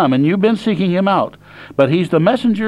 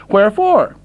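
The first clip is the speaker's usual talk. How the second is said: a mock-innocent whine pitched much higher; indignant complaint; 9 semitones higher than usual. Preacher voicing the men questioning God, high and indignant. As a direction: play the hurt, puzzled sinner protesting. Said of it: "But you say".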